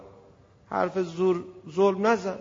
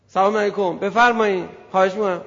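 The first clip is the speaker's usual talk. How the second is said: fawning greeting; 4 dB louder than usual. Pretend. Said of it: "چرا صدات نازک شد".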